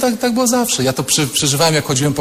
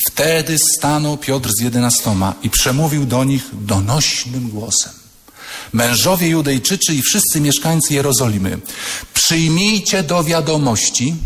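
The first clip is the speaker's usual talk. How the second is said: solemn reading. Shown as a demonstration. Peter's speech read.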